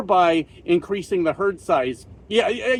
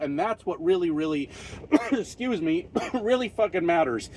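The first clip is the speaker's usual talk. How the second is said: out of breath; 5 dB quieter than usual. Real, not acted. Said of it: "I gotta catch my breath".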